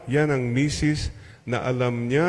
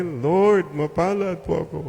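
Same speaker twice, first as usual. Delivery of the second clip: with a smile; 5 semitones higher than usual. Shown as a demonstration. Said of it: "Would you say it with a smile?".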